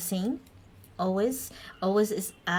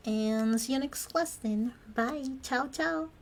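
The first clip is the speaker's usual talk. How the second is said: cheery goodbye; 5 semitones higher than usual. Real, not acted.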